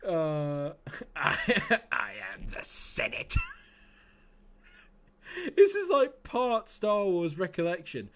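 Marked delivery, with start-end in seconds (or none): 1.2-3.4 whispered, laughing Palpatine; Palpatine impression. Streamer half laughing through a Sith quote. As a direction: hiss it like a gleeful emperor. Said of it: "I'll do the impression for you".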